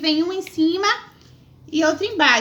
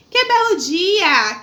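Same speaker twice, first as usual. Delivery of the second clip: joyful exclaiming; 3 semitones higher, 4 dB louder, much slower than usual. Shown as a demonstration. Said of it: "expressando um sentimento de alegria".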